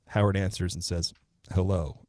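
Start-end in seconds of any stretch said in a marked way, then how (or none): 1.5-2.0 monotone. Retold or imitated. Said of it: "in a monotone".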